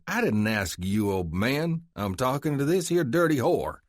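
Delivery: sneering Texan. Acted. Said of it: "glared at Luke and said".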